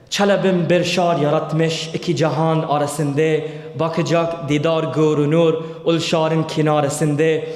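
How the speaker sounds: slow, loud, measured recitation of a Turkish poem; poem recited in Turkish. Shown as a demonstration. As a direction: chant each line out slowly like old verse. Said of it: "Please forgive me if I didn't pronounce it properly".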